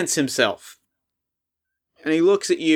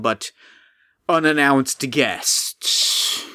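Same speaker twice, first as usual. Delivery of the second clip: apologetic golem. Acted. Golem voice held.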